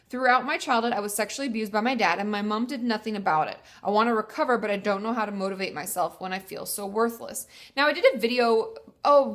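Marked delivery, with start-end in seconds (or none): none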